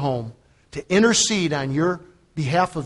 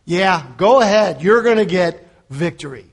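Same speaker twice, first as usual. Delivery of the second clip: sarcastic; 5 dB louder than usual. Acted. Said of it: "with a little sarcasm".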